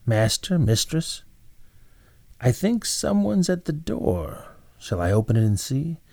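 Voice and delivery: a hint of the timid servant girl at the door; young maid's voice. Maid Bella tells her master and mistress someone's at the door, lightly girlish.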